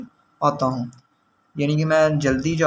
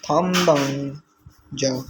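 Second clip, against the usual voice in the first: slow pronunciation; much slower than usual. Shown as a demonstration. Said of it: "pronouncing new vocabulary word".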